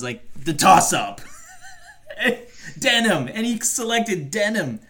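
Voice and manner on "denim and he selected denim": laughing high through the word. Real, not acted. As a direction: laugh out the answer. Laughing at denim quiz.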